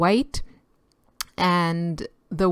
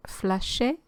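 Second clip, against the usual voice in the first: attempted French accent on the word; 3 semitones higher, 4 dB quieter than usual. Shown as a demonstration. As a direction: say it with your best French accent. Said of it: "I'm putting on my best French accent".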